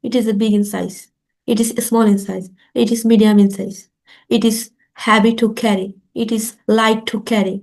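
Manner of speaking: normal speed. Shown as a demonstration. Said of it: "এবার একটু normal স্পিডে বলবো".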